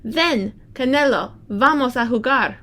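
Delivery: put-on child calling her dog. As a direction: call the dog over across the garden.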